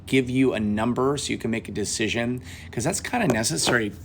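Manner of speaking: phone mic sliding away mid-sentence; phone slipping from shoulder. Real, not acted. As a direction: voice drifting off the mic. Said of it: "Sorry, my phone slipped".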